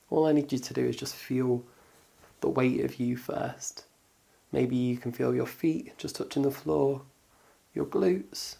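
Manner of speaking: calm, unhurried meditation guidance; guided body scan. Acted. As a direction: guide them gently through noticing the body, with pauses.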